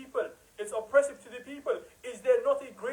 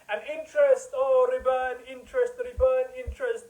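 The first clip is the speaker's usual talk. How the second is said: mocking scholars; 4 semitones higher, 5 dB louder than usual. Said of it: "They say riba".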